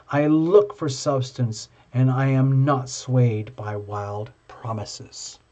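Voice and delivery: slow, measured affirmation read. Acted. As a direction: read each line as a calm vow. Reads affirmations in held style.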